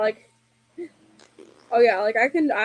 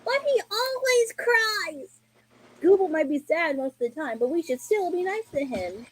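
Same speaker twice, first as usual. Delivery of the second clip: DJ Lance; 5 semitones higher than usual. Acted. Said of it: "I can even do the voice of D J Lance himself".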